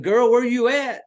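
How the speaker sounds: a hammed-up girl calling out to her friend; mock teen girl. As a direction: ham up a texting teen.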